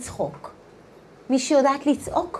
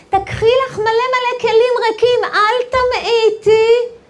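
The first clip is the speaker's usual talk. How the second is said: urgent instruction; 10 semitones higher, 6 dB louder than usual. Retold or imitated. Prophet tells widow to gather empty vessels, urgent and high. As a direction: urge her on with rising force.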